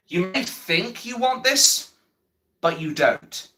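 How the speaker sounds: high, slow, ominous warning as if quoting a film; quoted movie line. Retold or imitated. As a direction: deliver it like a line from a famous movie. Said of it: "I'm quoting somebody from that company".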